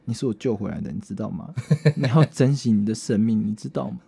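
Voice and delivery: a lightly voiced drunk tender talk to a cat; tender pleading. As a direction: murmur gently to a rescued kitten.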